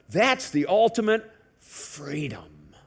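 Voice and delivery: slow, breathy sarcastic whisper. Real, not acted. Preacher whispering to the congregation about the ultimate freedom. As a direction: whisper it like a guilty secret.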